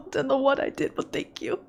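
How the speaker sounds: breathy whispered thank you; soft real gratitude whisper. Real, not acted. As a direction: barely voice it, touched. Touched thanks.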